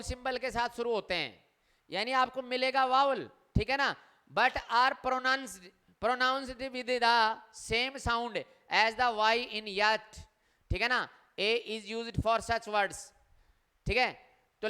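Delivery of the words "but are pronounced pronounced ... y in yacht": slow reading aloud. Shown as a demonstration. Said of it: "teacher reads rule slowly".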